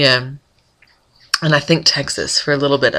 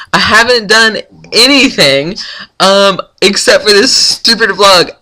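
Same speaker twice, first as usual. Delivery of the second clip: louder, higher exasperated venting; frustrated rant; 4 semitones higher, 4 dB louder than usual. Real, not acted. Vlogger ranting to viewers about hours lost, loud exasperated. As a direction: vent about the wasted morning, voice pushed up. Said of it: "that's my rant".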